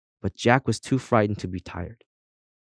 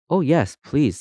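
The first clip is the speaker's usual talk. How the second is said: higher, winded eager reply; breathless; 6 semitones higher than usual. A narrator's reading. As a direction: say it short of breath. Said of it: "said the Christmas Pig breathlessly".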